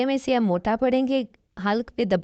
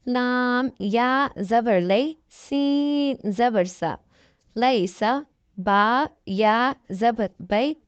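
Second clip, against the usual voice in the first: slow, deliberate letter-by-letter recitation, each syllable set apart; slow tajweed spelling drill; much slower than usual. Shown as a demonstration. Teacher drilling students in Quran reading, slow syllable recitation. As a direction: spell each letter and vowel slowly for beginners.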